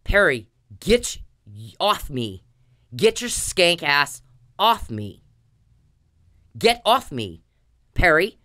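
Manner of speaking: slow, loud angry command; angry yell. Real, not acted. Furious woman ordering Perry off her, loud and slow. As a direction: bark it at him to get off. Yelling at harasser to get off.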